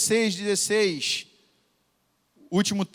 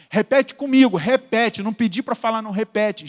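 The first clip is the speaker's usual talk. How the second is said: commanding order; 3 semitones higher, 6 dB louder than usual. Retold or imitated. Commanding the possessed girl.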